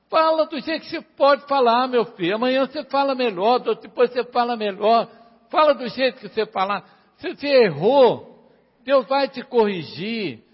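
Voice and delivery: fervent pulpit call, slowing on quantas vezes; preaching exhortation. Acted. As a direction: drive the congregation to speak up. Exhorting congregation.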